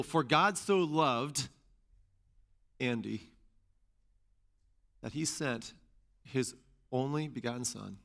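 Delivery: slow, with pauses around "Andy", softening after; personalized reading. Shown as a demonstration. Preacher rereading the verse with his own name, personalized. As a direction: set "Andy" apart with long pauses. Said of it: "reread the passage using personal pronouns".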